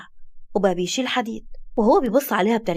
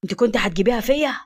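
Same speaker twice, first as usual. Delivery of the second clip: shocked exclamation; 2 semitones lower than usual. Acted. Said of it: "بيقول بصدمة".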